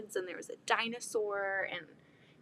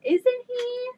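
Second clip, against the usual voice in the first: much higher, louder cooing; 14 semitones higher, 8 dB louder than usual. Real, not acted. Cooing over the baby.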